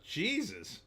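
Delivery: high, breathy disbelief; stunned. Real, not acted. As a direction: gasp it out in shock. Reacting to watching Cats.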